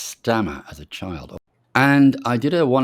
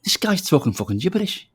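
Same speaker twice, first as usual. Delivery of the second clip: higher, still laughing at the memory; mocking laughing quote; 9 semitones higher than usual. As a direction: laugh while mimicking the baffled listeners. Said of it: "they kept saying".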